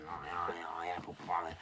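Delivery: "apple pie" said low and soft, thrown away; muttered repeat. Acted. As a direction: mumble the catchphrase to yourself. The catchphrase repeated under his breath.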